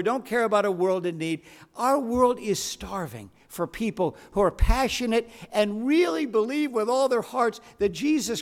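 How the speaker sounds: emphatic sermon climax with weighty pauses; deliberate, rousing pulpit appeal; preaching. Real, not acted. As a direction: preach it to the congregation, stretching key phrases.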